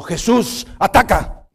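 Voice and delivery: the parrot sets the dog on him; parrot's command. Retold or imitated. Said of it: "dijo el perico".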